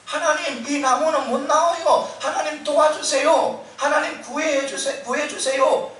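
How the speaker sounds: a man clinging to a branch begs God not to let go; panicked pleading yell. Retold or imitated. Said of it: "이렇게 다시 고함을 치는 거예요".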